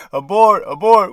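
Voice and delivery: urgent "Abort." called out sharply. Shown as a demonstration. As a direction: bark "Abort." like a warning call.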